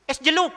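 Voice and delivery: "jeluk" with an L for the R, called out high and loud. Retold or imitated. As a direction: shout "Es jeluk" with L in place of R. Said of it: "keras sekali dia bilang".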